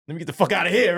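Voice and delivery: high, loud urge to flee; retold panic. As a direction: blurt it out in alarm. Panicked wish to escape.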